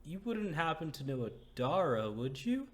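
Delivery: moved woman. Acted. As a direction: speak as the grateful woman. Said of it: "She's like".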